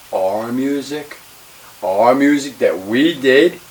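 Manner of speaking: stung and possessive, building in volume; indignant. Retold or imitated. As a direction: drag it out with rising indignation. Indignant retelling of the insult.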